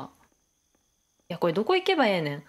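a quick fake Kansai grumble; 思わず出たエセ関西弁; slip into Kansai dialect. Real, not acted. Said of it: "関西人じゃないのに関西弁が出てしまう".

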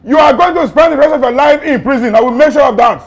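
loud, high-pitched threatening; angry threat. Acted. Officer threatening suspect with prison, angry shouting.

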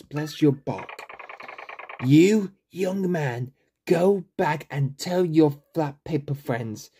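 put-on slow, creaky old tree grandpa; a hint of a doddering old grandpa; elderly grandpa voice. Old tree thanking the young visitors, lightly voiced elderly grandpa. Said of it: "an elderly granny or grandpa voice".

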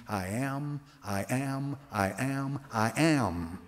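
I AM repeated as four separate, even-toned statements; emphatic repetition. Shown as a demonstration. Preacher showing what the Greek phrase means, emphatic repetition. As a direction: say each "I am" apart and deliberately, dropping on the last. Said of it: "literally an emphatic way of saying".

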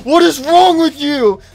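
high loud scolding; angry scolding. Acted. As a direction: tell her off sharply. Scolding Chica.

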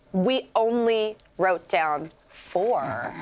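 put-on slow Valley Girl drawl, every word stretched; Valley Girl accent. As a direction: drag each word out, Valley Girl style. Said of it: "That's the Valley Girl accent".

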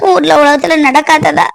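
weeping alone, pleading and aching; tearful lament. Acted. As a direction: pour out the heartache through tears. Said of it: "பொண்ணு அழுதுட்டு உட்காந்துருக்கா".

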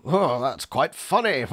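slow amused remark tipping into a little laugh. Retold or imitated. Reader recalls finding a rare joke in the book, amused. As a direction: re-enact mild, genuine amusement, then chuckle. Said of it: "this was a genuine".

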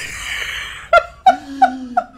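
loud high breathless laugh; high wheezing laugh. Real, not acted. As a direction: burst out laughing. Cracking up.

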